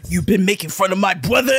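"brother" with W in place of R; speech-impediment impression. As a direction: mimic the older brother's bwother. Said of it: "brother had the same thing".

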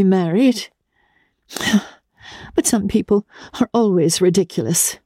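high, sharp and indignant; shrill voice. A narrator's reading. Madame Olenska scorning the bouquet, in a high, angry voice. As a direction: flare up in scornful anger, pitched high. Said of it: "in a shrill voice that the young man had never heard".

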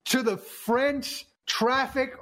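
hammed-up bouge shout; excited shout. Real, not acted. Mock outrage at bougie tweet.

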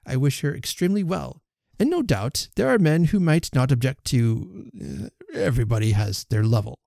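huffy, offended suitor; a touch of wounded pride; affronted. Acted. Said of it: "affronted in his turn".

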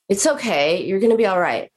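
flat reassurance. Retold or imitated. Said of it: "this is what she said and how she said it".

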